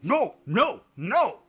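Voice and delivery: high, loud yell; sharp, high shouted refusal. A narrator's reading. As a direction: yell it back as the dog. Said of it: "the dog yelled".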